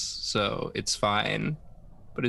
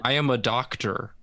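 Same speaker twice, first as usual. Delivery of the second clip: mock American accent. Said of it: "Benedict Cumberbatch doing an American accent".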